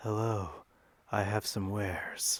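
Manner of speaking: very slow, evil, sinister merchant-like voice. Voicing a celestial merchant who visits a home to sell wares: evil-sounding merchant voice. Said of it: "That sounds more like an evil person".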